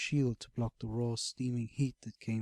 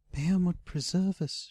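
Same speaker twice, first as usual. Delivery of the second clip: gasped; 7 semitones higher, 5 dB louder than usual. A narrator's reading. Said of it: "she gasped".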